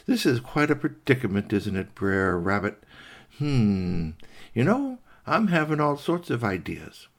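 lightly voiced gloating fox; scheming fox. Fox eyeing trapped rabbit, mildly gloating. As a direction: toy with the prey, lightly voiced.

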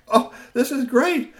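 high, slow delighted sigh; savoring the hug; happy robot. A narrator's reading. Robot hugging back, slow and happy. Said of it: "gave him a big hug back".

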